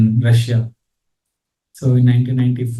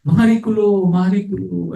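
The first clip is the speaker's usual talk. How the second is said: awed; 5 semitones higher than usual. Retold or imitated. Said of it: "something miraculous".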